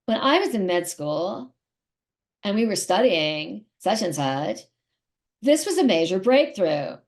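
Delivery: mock the podcasting doctor's creaky voice; mocking vocal fry. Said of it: "And they sound like this".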